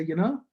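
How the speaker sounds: "You know" lifted at the end; imitating his own teenage uptalk on "You know"; Kiwi upturn. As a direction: tack on "You know" with a questioning rise. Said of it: "I'd always say what I'm saying".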